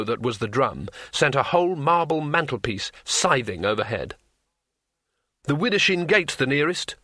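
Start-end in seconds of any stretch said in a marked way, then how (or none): 5.4-7.0 higher, mildly raised call; shouted. Acted. Wizard calling over collapsing rafters, shouting. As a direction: call it out with urgency. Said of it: "Rincewind shouted above the crackle".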